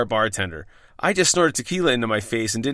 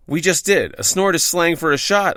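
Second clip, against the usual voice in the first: lightly voiced know-it-all, pitched up; Cliff Clavin; 4 semitones higher than usual. Bar patron explaining slang to his friends, lightly impersonated know-it-all. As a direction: explain it in a mild character impression. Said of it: "I said in my best Cliff Clavin".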